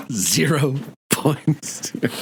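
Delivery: very slow, drawn-out stern dean; hammed-up stern dean, savoring each word; Dean Wormer quote. Repeats the Animal House quote.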